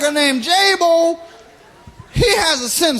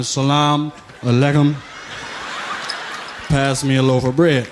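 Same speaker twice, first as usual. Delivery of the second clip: mock Muslim inmate; 11 semitones lower than usual. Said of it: "he be hollering".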